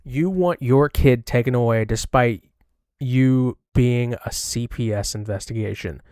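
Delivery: deliberate, pointed read-back; mocking read-back. Streamer reads back the other woman's words, mocking. Reading the illiterate misreading back.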